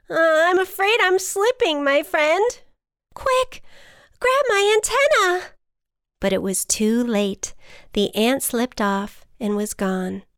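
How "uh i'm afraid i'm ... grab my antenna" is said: high, loud, mounting panic; storybook emergency, growing urgent; alarmed. A narrator's reading. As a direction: call out as a friend slips. Ant slipping, butterfly cries out.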